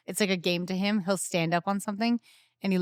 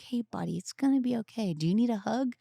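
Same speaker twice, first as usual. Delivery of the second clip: gentle soothing; 3 semitones higher, 3 dB quieter than usual. Retold or imitated. Parent soothing upset child.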